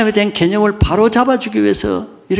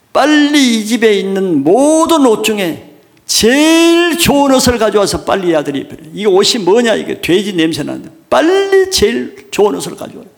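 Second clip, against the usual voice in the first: eager father's orders; 3 semitones higher, 3 dB louder than usual. Acted. Father orders the best robe.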